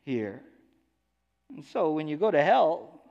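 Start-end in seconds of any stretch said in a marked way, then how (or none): 0.0-0.4 much higher and louder, bossy and entitled; demanding rich man. Acted. Rich man in hell demanding Lazarus serve him, high and loud. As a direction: order Abraham around like a spoiled master. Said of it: "He says".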